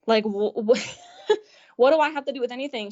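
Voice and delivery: retold friend accusation answered with a laughing what; laughing disbelief. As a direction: laugh through the baffled question.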